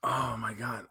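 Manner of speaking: breathy whispered groan; whispered exasperation. Real, not acted. Reacting to talking animals jab.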